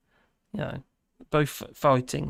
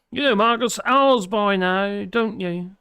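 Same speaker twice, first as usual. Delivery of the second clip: laughing; 5 semitones higher, 6 dB louder, slower than usual. Real, not acted. Teasing chat, laughing.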